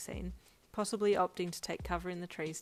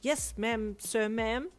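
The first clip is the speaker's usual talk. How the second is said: confused; 4 semitones higher, 5 dB louder, much slower than usual. A narrator's reading. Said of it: "the driver replied with confusion".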